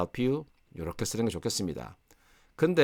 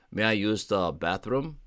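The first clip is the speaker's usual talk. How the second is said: "May I use the bathroom?" spelled out very slowly and politely; polite request, very slow; much slower than usual. Shown as a demonstration. Teacher modelling a polite request to a stranger, very slow. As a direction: say each word slowly and courteously. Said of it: "정중하게 좀 말하는 게".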